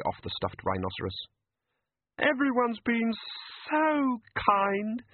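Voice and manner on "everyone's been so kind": high, weepy and grateful; a teary fairy thanking everyone; tearful fairy. Acted. The fairy thanks the wrangler, tearful and high. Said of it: "dabbing at her streaming eyes".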